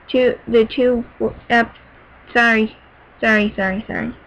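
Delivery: real tongue-tied stumble into repeated apologies; flustered false start, breaking off. Real, not acted. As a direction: trip over the words, then apologise. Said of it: "I got tongue-tied and distracted".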